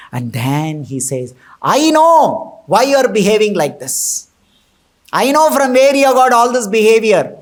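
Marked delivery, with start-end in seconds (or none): 1.6-7.4 raised, forceful rebuke of his wife; angry king accusing his wife; angry accusation. Retold or imitated. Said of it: "he's so angry".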